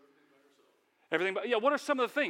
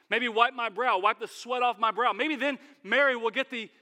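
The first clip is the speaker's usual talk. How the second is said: showy martyr; 5 semitones higher, 5 dB louder than usual. Acted. Martha hamming up her hard work.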